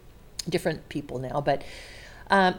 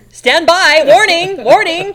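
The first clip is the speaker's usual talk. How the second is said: loud, high alarm announcement, hammed up; mock emergency alert, shouted; mock alarm call; 10 semitones higher, 14 dB louder, slower than usual. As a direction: sound a pretend warning siren. Joking alarm about a sensitive question.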